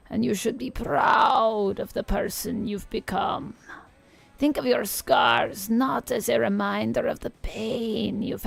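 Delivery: lightly voiced old Eastern European witch reading tarot; a hint of a crackly Eastern European crone; tarot reading in a mild Eastern European witch accent. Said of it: "I'm doing an old Eastern European witch voice".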